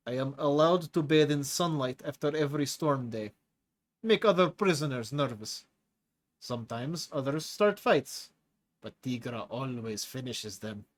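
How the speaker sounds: lightly voiced hulking prisoner with a foreign accent; a menacing brute enjoying scaring the new chief; Tigra's heavy accent. Tigra boasts.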